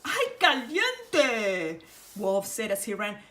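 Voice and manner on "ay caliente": slow, louder pained wail; yelp of pain. A narrator's reading. Wolf burned by hot soup, mild pained wail. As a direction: cry out from scalding soup.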